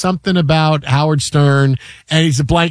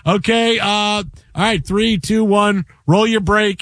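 producer countdown; 3 semitones higher, slower than usual. Retold or imitated.

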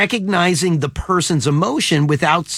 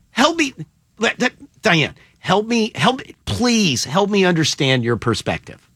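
condescending tone. Retold or imitated. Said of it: "then that's a tone issue".

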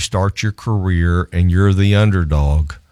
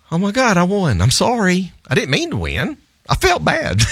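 high, squealing mock apology, ending in a shout; half-laughing, apologetic high voice; giddy disbelief; 12 semitones higher than usual. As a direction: gush it out like you can't believe you won. Retells own reaction to winning.

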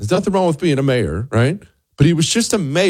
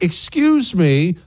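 drawn-out, higher, mock-offended reaction; awkward disbelief; 7 semitones higher, slower than usual. Host voicing wife's reaction to a fawning nurse, awkward disbelief. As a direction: stretch it out high, taken aback.

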